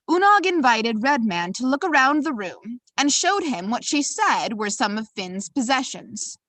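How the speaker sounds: put-on storytelling in a lilting, amateur Irish accent; swooping Irish-accented narration. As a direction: read the tale with a sing-song Irish accent. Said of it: "apologies in advance for my terrible accent".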